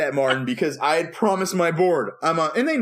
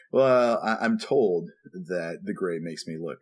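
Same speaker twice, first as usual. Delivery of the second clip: very polite; 7 semitones lower than usual. Retold or imitated. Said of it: "I just very politely say".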